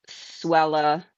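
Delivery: "Swella" ending in an uh, SWELL-uh; mispronounced name. Shown as a demonstration. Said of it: "the other one is".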